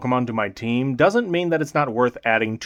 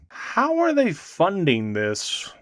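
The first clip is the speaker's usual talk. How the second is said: deadpan wonder; 4 semitones higher, much slower than usual. Real, not acted. Deadpan question about free healing.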